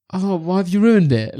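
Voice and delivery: laughing mock sad. Lucy sad, quoted laughing.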